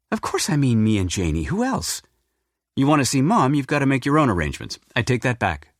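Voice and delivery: a daughter impatient, then pulling back; lightly voiced daughter. Diana telling her dad they're coming, lightly voiced.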